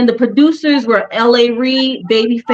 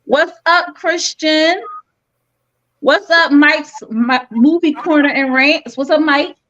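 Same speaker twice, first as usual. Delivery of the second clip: high, bright live-stream hellos; excited greetings; 6 semitones higher than usual. Real, not acted. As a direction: greet the chat with high energy. Greeting live chat commenters.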